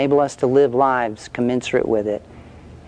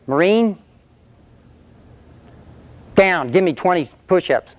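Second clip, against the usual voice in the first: raised, barked order to drop and do push-ups; drill sergeant bark; 5 semitones higher than usual. Retold or imitated. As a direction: command him like a drill sergeant.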